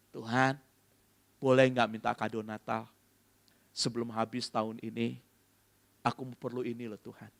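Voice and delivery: low, softening plea to God; gentle prayer. Acted. Believer asking God for a Christmas gift, gentle prayer. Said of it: "ngomong sama Tuhan".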